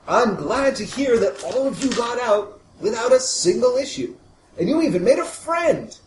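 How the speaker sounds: high, chipper corporate mascot voice; beaming, over-sweet salesman; cheery spokesman. Acted. GM voicing Mister Smiley.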